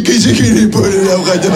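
mock baby talk to a dog; goofy dog-owner voice. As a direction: coo at the labrador like a silly owner. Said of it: "si je parle à un labrador".

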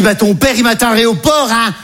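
put-on maternal insistence; mother's voice. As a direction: imitate a mother who won't budge.

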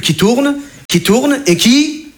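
stretched out slowly, the ride going round; a lightly drawn-out spin. Shown as a demonstration. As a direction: drag it out like spinning. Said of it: "voilà".

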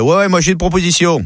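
put-on eager Marseille accent. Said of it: "Dédé lève la main".

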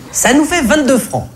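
high, squeaky exasperated cashier voice; yelping annoyed cashier. Acted. Comedian playing the irked cashier, high yelping voice. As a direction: yelp it out with an irritated sigh, way up high.

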